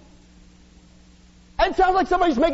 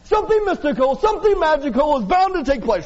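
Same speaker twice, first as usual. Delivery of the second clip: fairy-tale storyteller; 3 semitones higher than usual. Shown as a demonstration. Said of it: "Let me translate".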